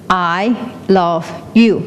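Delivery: slow, measured echo; echo shouting back. Acted. The world answers the shout from the cliff, slow echo. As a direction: give it back slowly, word by word. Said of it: "it will shout back".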